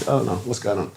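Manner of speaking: lost in disbelief; dazed. Retold or imitated. The speaker recalling walking out stunned after getting the role.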